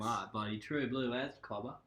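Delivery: hammed-up Australian accent; broad Aussie accent. Shown as a demonstration. Showing a friend an Aussie accent, broad and cliché. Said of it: "Do an Aussie accent, please".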